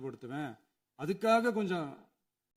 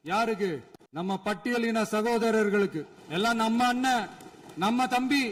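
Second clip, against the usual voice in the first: somewhat raised speechmaking voice; projected political challenge; speaking up. Real, not acted. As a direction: speak up so the other side hears. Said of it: "நான் ஏன் கொஞ்சம் சவுண்டா பேசுறேன்".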